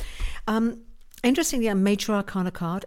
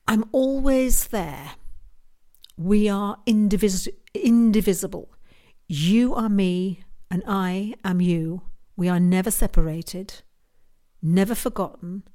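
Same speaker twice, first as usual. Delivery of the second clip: channelled voice of Source; 4 dB louder than usual. Retold or imitated. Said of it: "the message that I was asked to send today from Source Energy".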